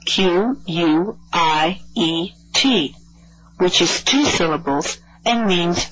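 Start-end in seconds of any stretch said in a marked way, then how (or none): 0.0-3.0 spelled out. Shown as a demonstration. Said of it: "Don't confuse this word with quiet".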